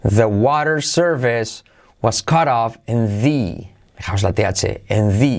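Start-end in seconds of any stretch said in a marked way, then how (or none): 4.9-5.4 "the" ending in a clear I vowel; THE with an I sound. Shown as a demonstration. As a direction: say "the" as "thee", with a long ee. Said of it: "se pronuncia con una I". ("the" pronunciado con una I)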